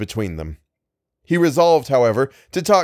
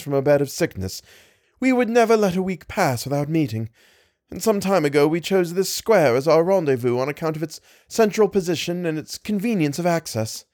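put-on lightly pitched-up young woman telling her story; a hint of the lady, higher and earnest; young lady explaining her lost brother, lightly voiced higher; distressed young lady; 3 semitones higher than usual. Lady's long explanation.

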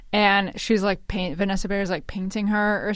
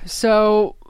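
creaky vocal fry; vocal fry on the words; 4 dB louder than usual. Real, not acted. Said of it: "That noise you just made was crazy".

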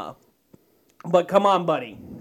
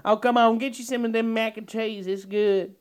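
lightly voiced heavyset southern woman. Host voicing a southern woman pushing food, lightly drawled southern accent. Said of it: "fifty-year-old woman who's, like, four hundred pounds".

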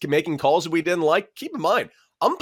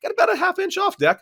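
much higher mock umpire voice; mock umpire reply; faster than usual. Umpire answering the catcher, much higher mock voice. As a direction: pitch the ump's answer way up.

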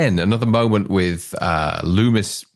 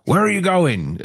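higher Hoffman quote; 7 semitones higher than usual. Retold or imitated. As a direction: redo the line higher and sharper. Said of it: "So I'll say that again".

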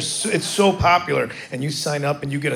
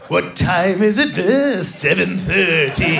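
put-on doom-laden old Englishman; slower than usual. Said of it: "always sound like they're just dooming you".

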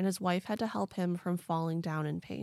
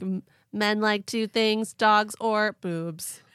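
alien voice; 7 dB louder, slower than usual. Retold or imitated.

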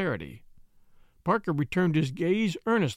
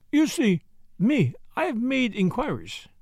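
pleasantly knowing, high start; 7 semitones higher than usual. A narrator's reading. Detective pleasantly revealing his inquiries to the butler. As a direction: say it with a pleasant smile. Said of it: "said Poirot pleasantly".

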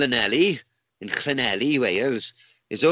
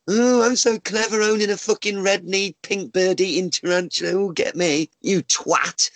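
higher, jeering mock-boastful voice; mocking show-off; 5 semitones higher than usual. Man ranting at spider importers, mocking show-off. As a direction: parody a smug pet owner. Mocks show-off tarantula owners.

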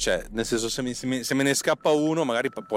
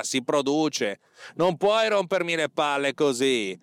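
angry boss rant; 5 semitones higher than usual. Acted. Boss ranting at employee Gualtiero.

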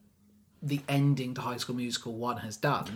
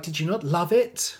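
higher, louder mock-eager question; imitating eager diva; 5 semitones higher, 5 dB louder than usual. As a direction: play her fishing for praise. Voices Sharpay fishing for praise.

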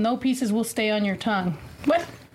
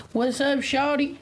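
slow pimp swagger with grill in; wearing teeth grill; 4 semitones higher, slower than usual. Real, not acted. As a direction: drawl it like a rapper with a grill. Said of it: "we got a grill in our mouth".

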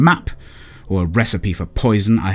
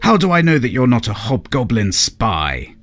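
higher, stern demand; the Queen grilling the peddler, stern and raised; suspicious queen; 5 semitones higher, 4 dB louder than usual. A narrator's reading. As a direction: challenge him hard. Angry queen questions suspect.

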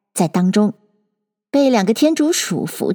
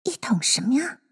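soft whispered question; puzzled thought; 3 semitones higher, 7 dB quieter than usual. A narrator's reading. Alice wondering about the barrowful, whispering. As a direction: whisper it to yourself. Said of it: "爱丽丝想到".

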